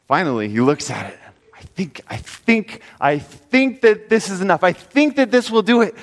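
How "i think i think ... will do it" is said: pleased man. Acted. Man counts his money, satisfied.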